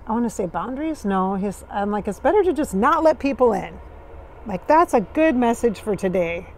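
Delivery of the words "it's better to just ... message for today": deadpan Midwest sarcasm, selling the bad idea; sarcastic. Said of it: "I'm being sarcastic".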